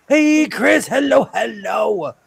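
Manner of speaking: high, loud, drawn-out hello; excited greeting. Real, not acted. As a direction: call out a big hello to a newcomer. Greets someone just arriving.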